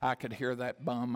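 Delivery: imitating a Welsh preacher's accent; lightly attempted Welsh accent. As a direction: recall it in a slight Welsh accent. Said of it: "in his Welsh accent saying".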